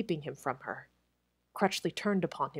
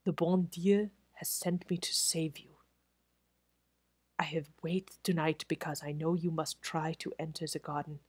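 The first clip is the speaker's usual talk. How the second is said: whispered, softer and respectful; 4 dB quieter than usual. Acted. Head waiter confiding to Crutchley, soft respectful whisper. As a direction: hush it, gently urgent. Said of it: "in a voice grown softer and more respectful".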